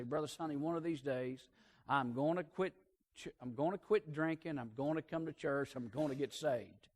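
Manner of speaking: soft, subdued retelling of a weepy vow; imitated tearful promise. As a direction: lightly mimic a tearful drinker, voice dropped.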